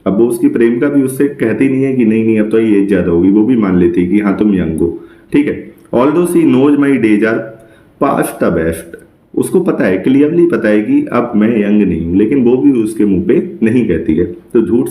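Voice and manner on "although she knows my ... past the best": slow poem recital. Shown as a demonstration. Teacher reading a Shakespeare sonnet line to students, very slowly. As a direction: read the verse very slowly, word by word.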